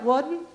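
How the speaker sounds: "Wasn't" said as "wudn't"; Southern slurred form. Shown as a demonstration. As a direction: swap the z in "Wasn't" for a d. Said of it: "I was dropping my G's".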